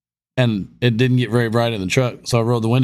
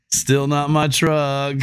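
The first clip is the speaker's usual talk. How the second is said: laughing repeat; slower than usual. Retold or imitated. Repeating excuse, laughing, third stop.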